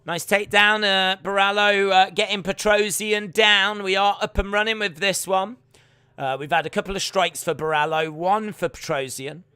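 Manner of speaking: punchy live sports commentary; play-by-play. Real, not acted. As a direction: call the action for viewers.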